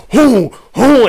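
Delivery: mock effortless "who, who" puffs; imitated lifting huffs. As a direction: puff like a coach easily lifting. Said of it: "coach just like".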